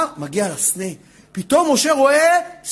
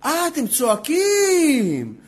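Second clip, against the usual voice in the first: drawn-out realization; much slower than usual. Acted. God's reply to the outcry, voiced.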